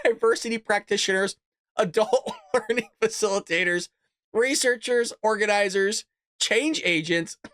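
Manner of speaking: reading out through bursts of laughter; trying not to laugh. Real, not acted. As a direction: struggle to get the list out without laughing. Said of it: "I can't even get this out without laughing".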